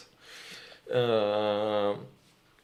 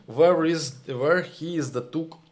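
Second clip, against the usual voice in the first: indignant; 5 semitones higher, 3 dB louder than usual. Real, not acted. Indignant question about Trump.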